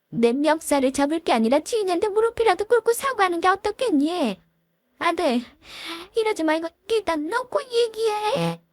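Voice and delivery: high, soft, slowing to a wail at the end; an aggrieved mother crying out at her son; a mother's thin wail of outrage. Acted.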